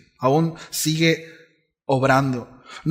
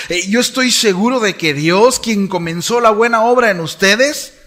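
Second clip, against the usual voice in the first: loud, raised-pitch proclamation of the verse; declaiming Paul's words to the congregation, loud and high; fervent scripture reading; 6 semitones higher, 9 dB louder than usual. Acted. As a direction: preach the promise out to the whole room. El apóstol Pablo le dice a los filipenses.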